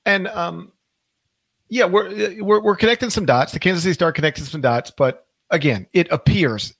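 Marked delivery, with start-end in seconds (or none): 5.9-6.7 "appears" slightly lifted and weighted; stress on appears. Shown as a demonstration. Host stresses "appears" to stay careful on allegations. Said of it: "emphasis on the word appears".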